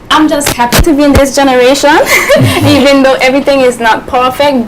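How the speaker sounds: fast, laughing and loud. Real, not acted. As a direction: laugh through the words. Laughing while answering.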